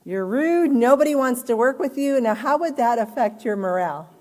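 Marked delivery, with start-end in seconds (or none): 0.0-2.2 a little higher and louder, a mock blunt scolding; blunt supervisor. Teacher recalls the harsh supervisor line, a light mock scolding. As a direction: toss the harsh words back at the class. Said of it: "Now imagine getting the A".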